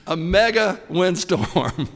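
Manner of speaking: "mega" punched loud and slow; stress on mega. Shown as a demonstration. Preacher savoring the Greek word, loud "mega". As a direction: lean hard on "mega" to show off the Greek. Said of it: "You know what the word for great is in the Greek?".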